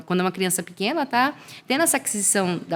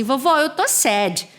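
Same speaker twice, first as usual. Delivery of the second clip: put-on slow, higher little-girl voice; imitating a little girl; 5 semitones higher, much slower than usual. Daughter telling grandma she is sad, childlike. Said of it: "ela fala pra minha mãe assim".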